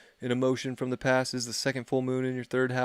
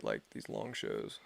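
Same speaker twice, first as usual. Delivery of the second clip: hoarse, breathy and tired; losing voice; 11 dB quieter, slower than usual. Real, not acted. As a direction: voice giving out. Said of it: "Losing my voice".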